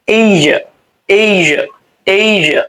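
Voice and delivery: এইজা said as "eija", with a j sound; native pronunciation. Shown as a demonstration. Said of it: "নেটিভরা বলে কি? এইজা।". (নেটিভদের মতো এইজা উচ্চারণ)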